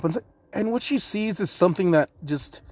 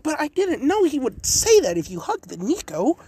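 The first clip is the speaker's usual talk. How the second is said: panicked protest; 11 semitones higher than usual. Acted. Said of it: "Naruto's just like".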